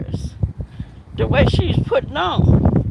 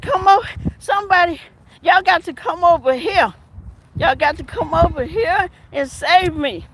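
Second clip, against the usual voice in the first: mock frantic plea; 4 semitones higher than usual. Retells caller's dramatic plea.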